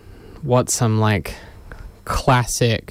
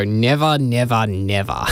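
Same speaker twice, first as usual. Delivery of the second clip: imitating a slip into broad Australian accent; hammed-up Australian accent on a movie line; full-on Australian accent. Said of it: "every second line is just full-on Australian".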